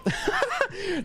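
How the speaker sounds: shrill giggle; high squeaky laugh. Real, not acted. Laughs at fast welding.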